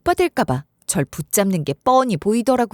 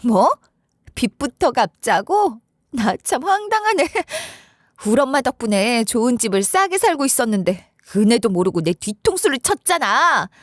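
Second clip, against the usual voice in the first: mock-incredulous, half-laughing retort; scoffing disbelief; 2 semitones higher than usual. Wife scoffs at her husband's demand, incredulous. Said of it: "실소를 지으면서 이랬어요".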